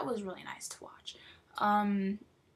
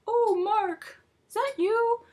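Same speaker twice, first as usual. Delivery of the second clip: much higher, hopeful call at the door; Callie voice; 12 semitones higher, 8 dB louder, slower than usual. Retold or imitated. Callie hearing a knock, calling through the door in a much higher voice. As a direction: play her calling sweetly through the door. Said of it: "Callie's like".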